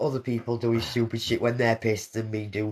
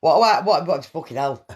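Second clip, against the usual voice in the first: shocked; 4 semitones higher, 7 dB louder than usual. Real, not acted. Shocked by foul drink taste.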